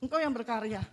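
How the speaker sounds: soft, low, humble prayer; murmured prayer, voice dropped low; praying to God. Retold or imitated. Speaker retells praying to God while seated in pain, soft prayer. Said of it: "berdoa sama Tuhan".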